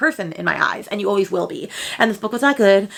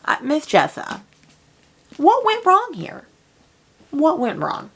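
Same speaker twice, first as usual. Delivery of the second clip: mock plea; 6 semitones higher, slower than usual. Pleading to the author.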